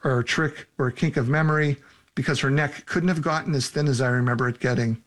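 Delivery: measured first-person audiobook reading; story narration. A narrator's reading. Author reading a frightening scene to listeners, story narration. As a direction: read the scary scene evenly, phrase by phrase. Reads own novel aloud.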